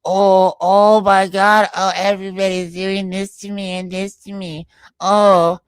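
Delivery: high, loud, slow mock wail of an eternal victim; mocking Beta. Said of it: "Beta is such the eternal victim".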